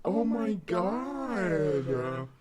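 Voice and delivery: very slow warped gasp; voice changer effect. Pretend. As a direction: stretch it out, filtered. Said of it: "I sound like a drag queen".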